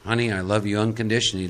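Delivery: soft, low, calm delivery. Acted. Spiritual woman to her husband, very calmly. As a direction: say it gently and low, unruffled. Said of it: "who very calmly would say".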